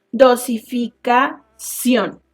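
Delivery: "Dosificación" slow, syllable by syllable, ending on CIÓN; deliberate teaching demo of "Dosificación"; stress on last syllable. Shown as a demonstration. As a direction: break up "Dosificación" and set CIÓN apart. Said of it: "las que llevan el acento en la última".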